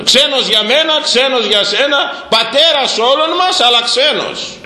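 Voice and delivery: high, ringing preacher's cry; impassioned preaching. Real, not acted. Priest crying out to his flock, impassioned and high. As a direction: lift the congregation with the word. Preacher rising to a passionate peak.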